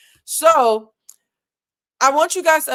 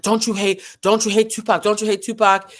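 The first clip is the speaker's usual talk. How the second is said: mildly pushy, insistent repeated question, louder; a rapper; 5 dB louder than usual. Retold or imitated. Host imitates a rapper badgering another rapper, mildly insistent. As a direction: keep needling with the same question. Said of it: "And so he's like".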